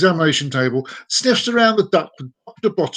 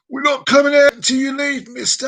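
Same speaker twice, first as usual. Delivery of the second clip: high, loud mock-female call; shouting; 10 semitones higher, 4 dB louder than usual. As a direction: call out defiantly to the farmer. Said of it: "One of the women then shouts".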